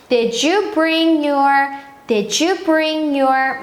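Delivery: very slow, clear teacher demo; slow model sentence. Shown as a demonstration. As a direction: stretch each word out for the kids. (아주 천천히 또박또박)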